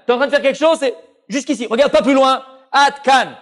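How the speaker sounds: high, coaxing tempter voice; Yetzer Hara's voice. Acted. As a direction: egg the listener on like the evil urge. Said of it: "la force du Yetzer Hara".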